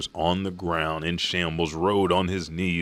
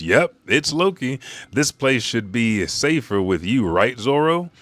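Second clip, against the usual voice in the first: lightly voiced upbeat character, higher and louder; Luffy; 5 semitones higher, 4 dB louder than usual. Luffy answering Zoro from Loki's back, upbeat. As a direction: pitch it up for a cheery reply.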